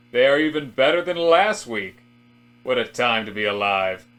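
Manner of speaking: loud, overly cheerful office-man chatter; hammy office banter. Acted. George and Robert chat about stocks, loud and chipper. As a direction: play two stiff, chipper coworkers trading pleasantries.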